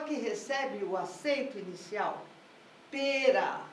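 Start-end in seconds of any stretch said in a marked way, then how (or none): 2.9-3.6 "Pera" with the accent on Pe; stress on first syllable. Shown as a demonstration. Teacher showing where the accent sits, "Pera" stressed on Pe. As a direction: lean on the opening Pe of "Pera", letting ra fall away. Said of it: "O acento tá no P".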